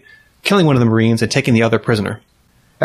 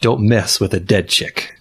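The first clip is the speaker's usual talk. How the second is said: hammed-up epic trailer narration; old sci-fi announcer; slower than usual. Mock movie trailer narration.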